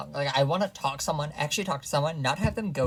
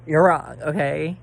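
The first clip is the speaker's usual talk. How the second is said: You're wrong, blurted out loud; loud scolding; loud insistence; 9 dB louder, much slower than usual. Real, not acted. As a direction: hit it loud and firm. Ranting at viewers.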